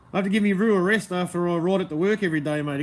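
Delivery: Bogan accent. Shown as a demonstration. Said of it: "continues Bogan bit".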